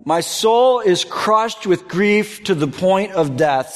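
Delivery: slow, heavy grief; mournful slow reading. Acted. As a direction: drag it out as if crushed. Reading Jesus' words of grief.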